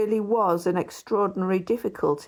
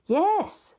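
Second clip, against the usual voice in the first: a much higher, insistent yes; neighbour's yes; 11 semitones higher than usual. A narrator's reading. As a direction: press him with one eager word.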